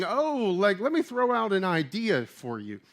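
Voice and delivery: casual, noncommittal mock offer; mock suggestive. Preacher acting out what Paul is not saying, mock suggestive. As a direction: float it like a mere suggestion. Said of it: "He's not being suggestive here".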